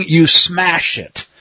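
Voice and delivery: SMASH drawn out slowly for emphasis; slow, weighty stress on SMASH; emphatic. Shown as a demonstration. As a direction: lean slowly and hard on SMASH. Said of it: "very emphatic".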